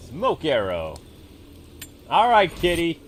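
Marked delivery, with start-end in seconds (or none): 2.1-3.0 put-on baby talk to a cat. Luring the tiger, sing-song.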